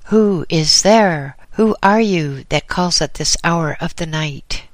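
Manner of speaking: put-on old caretaker's loud, high, wary demand. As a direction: challenge the stranger at the door. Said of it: "with high raised voice, demanded".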